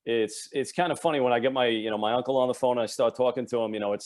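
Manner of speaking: native working-class New York accent. Shown as a demonstration. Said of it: "it comes out instantly".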